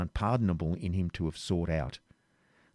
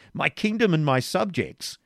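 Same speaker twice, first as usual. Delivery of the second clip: impatient; 7 semitones higher than usual. A narrator's reading. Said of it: "answered Richard impatiently".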